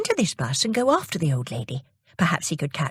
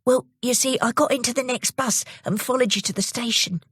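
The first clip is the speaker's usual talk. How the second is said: lightly voiced young boy, higher; Jimmy; 6 semitones higher than usual. Jimmy explains to the old lady, lightly voiced boy. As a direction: explain eagerly like a small boy. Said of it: "said Jimmy".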